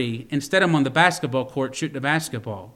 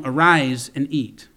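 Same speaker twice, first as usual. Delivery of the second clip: slow, gentle angel's command; loving tone. Retold or imitated. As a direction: invite him tenderly to eat. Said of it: "and I think in a loving tone".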